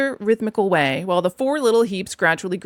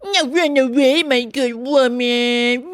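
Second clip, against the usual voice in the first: slow, raised put-on command; curt sergeant; 4 semitones higher, 3 dB louder, much slower than usual. A narrator's reading. Sergeant dismissing the washerwoman, curt. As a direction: order her off firmly. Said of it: "said to me very short".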